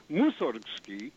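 Mussorgsky with MUS stressed, slow; Mussorgsky as MUS-sorg-sky; stress on first syllable. Shown as a demonstration. Caller giving the right stress after Taruskin, first syllable. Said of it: "it should be".

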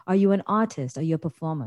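put-on mildly haughty questions in a faint British accent; snobbish British put-on. In disguise, quizzing a friend about dancing, mildly snobbish. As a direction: lightly look down on him, posh pretence. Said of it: "very, very snobbish to him".

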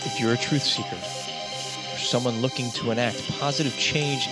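upbeat promo voice over music; ad read. Acted. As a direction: read it like a podcast ad.

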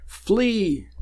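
high, drawn-out warning call; urgent warning cry. Acted. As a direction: cry it out long and high, falling away.

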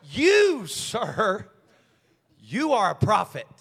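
slow, awed, rising to loud thanks; lightly voiced grateful worshipper; grateful praise. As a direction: kneel and bless the preacher. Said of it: "get down on one knee and say".

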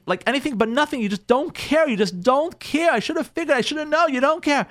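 high, aggrieved complaint; hurt, angry wife. Acted. New wife scolding husband for not noticing, high and hurt. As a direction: pour out the grievance, pitched high. Wife finally airs her grievance.

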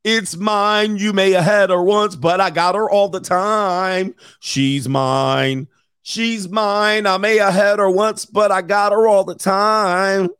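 a hammed-up possessive man; possessive mock boast. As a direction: crow it like a jealous boyfriend. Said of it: "You'll be like".

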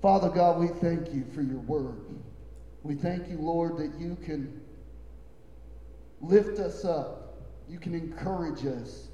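prayer to God that swells and eases at the end; closing prayer. Acted. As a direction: pray for the church with rising fervour.

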